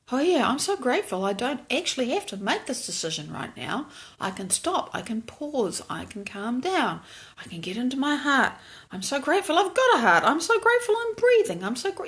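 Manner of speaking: softly, gratefully talking yourself down; quiet self-soothing murmur; gentle thankful inner monologue. Retold or imitated.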